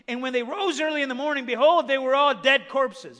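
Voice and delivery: loud, declaimed Bible verse; forceful scripture reading. Acted. Preacher reading how the story ends, loud and declamatory. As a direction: build to a loud proclamation.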